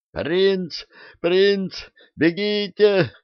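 high, strained shouting; desperate shouting. A narrator's reading. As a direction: cry out in despair. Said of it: "надрывался батлер". (отчаянный крик дворецкого)

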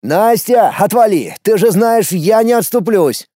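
loud, stubborn shout; angry yell. A narrator's reading. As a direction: push his sister away. Brother yells at sister.

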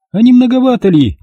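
high, loud doubting question; suspicious mistress. A narrator's reading. Olga doubting the maid's savings, suspicious.

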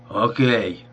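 a touch of bitterness, squeezed out; grudging, lightly bitter okay. Acted. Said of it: "выдавил он с горечью". (с лёгкой горечью)

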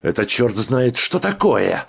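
high, loud indignant outburst; patient erupts at the guard, outraged and loud; outraged cry. A narrator's reading. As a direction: explode with outrage. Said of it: "вскрикнул вдруг".

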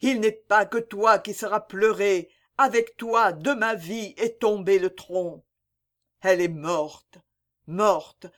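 plainte douloureuse, légèrement plus aiguë; complainte. Acted. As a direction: pleure sa bien-aimée sans sanglot audible. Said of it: "commencèrent les complaintes". (Vincent se lamente sur Mireille morte, plainte retenue)

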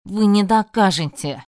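defiant shout. Acted.

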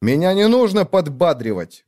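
slap the offer away; mild angry bark at his sister; barked retort. Acted. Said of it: "гаркнул я".

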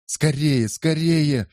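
high urgent hurrying; urgent echo. A narrator's reading. Pietro echoes Andrea: high urgent hurrying. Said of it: "вторил ему Пьетро".

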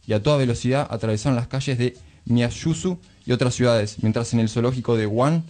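measured storyteller's reading over music; calm, deliberate reading of a Galeano piece; literary reading. Acted. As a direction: read it like a short chronicle. Reads a Galeano text over music.

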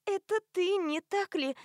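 high, gasping recognition; breathless realisation. A narrator's reading. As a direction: gasp it as it dawns on her. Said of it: "задыхалась она".

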